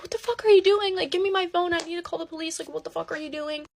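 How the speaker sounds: high-pitched, urgent retold outburst; alarmed demand. Girlfriend confronting boyfriend holding scissors to his neck, retold alarmed demand. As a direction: start high and incredulous, easing off as you demand. Girlfriend panics as he threatens himself.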